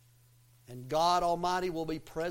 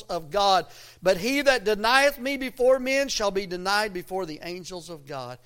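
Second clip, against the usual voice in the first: emphatic preacher's Bible reading; scripture reading; 5 dB louder than usual. Acted. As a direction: proclaim the verse to the congregation. Reads scripture aloud to congregation.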